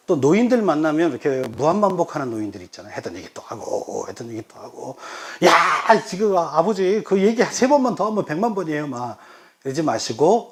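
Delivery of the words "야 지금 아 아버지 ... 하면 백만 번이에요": higher, louder mock outburst at father; mild hammed-up exasperation; exasperated complaint. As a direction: act fed up with an old man's repeating. Snapping at a repetitive old father, acted.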